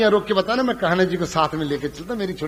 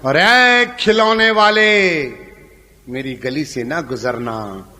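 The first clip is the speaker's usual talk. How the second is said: slow, lower, sorrowful verse; poem recitation; 6 semitones lower than usual. Acted. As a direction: recite it heavy and mournful.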